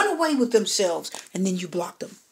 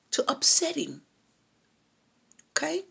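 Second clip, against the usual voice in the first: whisper; 6 semitones higher, 4 dB quieter than usual. Real, not acted. Pointing out client's motive.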